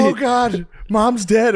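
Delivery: high frantic mock cry; panicked sister. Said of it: "Katie's like".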